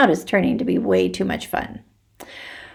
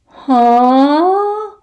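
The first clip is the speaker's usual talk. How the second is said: startled; 8 semitones higher, 5 dB louder than usual. Acted.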